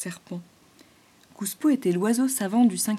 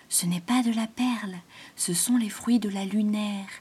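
whispering python. Acted. Python explains the moonwort seeds to the animals, whispering. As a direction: murmur the explanation gently.

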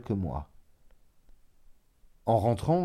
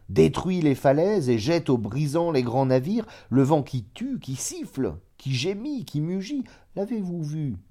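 building louder, then climbing much higher in pitch; impassioned crescendo; 5 semitones higher, 4 dB louder than usual. A narrator's reading. Monk proving to the traveller that the unseen exists, impassioned and building. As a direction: pile up the list, rising to a high-pitched challenge. Monk's argument builds about the wind.

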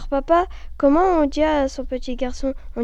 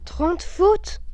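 higher, rising echo question; taken aback; 5 semitones higher than usual. Acted. Father told of the dictation mistakes, taken aback. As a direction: repeat it in disbelief, pitch climbing.

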